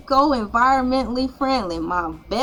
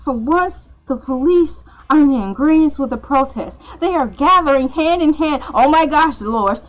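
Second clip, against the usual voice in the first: excited reporter on the scene; mock live news report. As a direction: report breathlessly like a field reporter.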